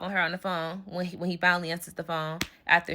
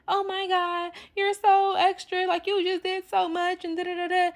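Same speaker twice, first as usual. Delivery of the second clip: higher, dragged-out mimic of the friend; mock whiny friend; 11 semitones higher than usual. Teller mimics her friend calling her extra, in a high whine. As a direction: make fun of the friend's fuss.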